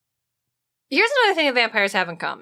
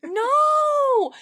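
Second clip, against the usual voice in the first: laughing no; 4 dB louder than usual. Real, not acted. Laughing denial.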